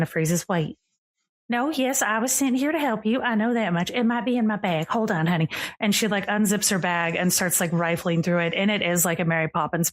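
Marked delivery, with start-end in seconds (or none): 0.5-5.5 high, bubbly, breathless fairy lady; giddy fey woman. Acted. Fey guest greeting Charlie in the rain, high and gushing. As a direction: gush like a delighted otherworldly guest. Astrid checks her memory.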